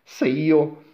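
put-on high, loud boy voice; boy's voice. A narrator's reading. Boy desiring gold plans to climb, high voice. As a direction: speak up as the young hero.

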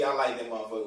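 quietly sure, dropped low; imitated admiration. Listener reacting to a New Orleans accent, low imitated admiration.

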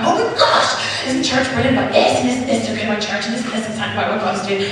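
excited gushing. Retold or imitated. Gushing about church over lunch.

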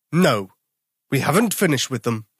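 put-on a bear booming no at the boy; bellowing. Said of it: "the bear bellowed".

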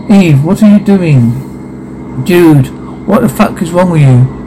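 horrified. Acted. Horrified at friend's action.

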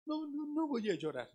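holding back tears. Retold or imitated. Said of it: "uno aguanta".

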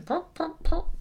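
high popped syllables; primping noise. Shown as a demonstration. Host demonstrates primping for an audio audience, high popping sounds. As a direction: pop out little sounds like hair being primped. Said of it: "that's the noise of someone primping".

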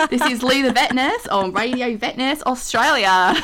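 lightly put-on Australian accent; mild Aussie radio intro; half-hearted Australian impression. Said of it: "do me Australian one more time".

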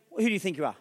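scornful put-down. Acted. Joseph's brothers scorn his dream.

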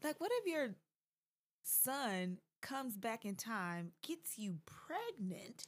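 slow, hushed whisper at the end. Real, not acted. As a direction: drop to a slow creepy whisper. Creepy hypothetical, slowed whisper.

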